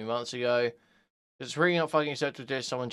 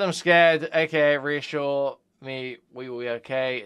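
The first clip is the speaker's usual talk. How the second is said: loud quote; 6 dB louder, slower than usual. Retold or imitated. Quoting messages loudly.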